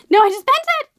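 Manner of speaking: loud, high wail of dismay; dismayed cry. Real, not acted. Book fan who just bent the book, loud dismay. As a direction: cry out at the damage. Has damaged the new book.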